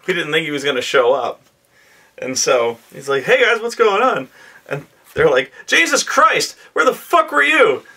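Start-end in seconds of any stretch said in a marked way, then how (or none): 3.2-4.3 bright high breezy greeting, way up; casual late player. Retold or imitated. 5.7-7.8 very high, loud exasperated squawk; exasperated players. Retold or imitated. Players scold late friend.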